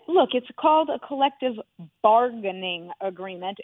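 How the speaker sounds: bargaining given weight in collective bargaining agreement; lecturing host, weight on bargaining; stress on bargaining. Real, not acted. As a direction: lean on bargaining to make the point. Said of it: "emphasis on the word bargaining".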